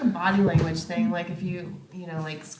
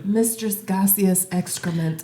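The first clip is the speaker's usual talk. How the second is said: slow grand title; 3 semitones higher, 4 dB louder, slower than usual. Pretend.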